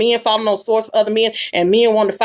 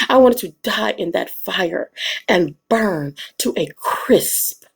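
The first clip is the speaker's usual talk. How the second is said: dramatic thespian reading; 4 semitones lower than usual. Acted. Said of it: "That was my thespian".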